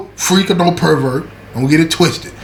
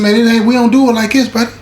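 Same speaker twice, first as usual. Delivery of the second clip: penitentiary mode; 5 semitones higher than usual. Retold or imitated. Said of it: "I go straight into penitentiary mode".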